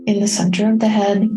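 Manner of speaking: calm, unhurried meditation guide with long pauses; soothing, evenly paced meditation voice; guided meditation. Real, not acted. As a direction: guide listeners gently inward, leaving space between phrases. Leads a self-care meditation.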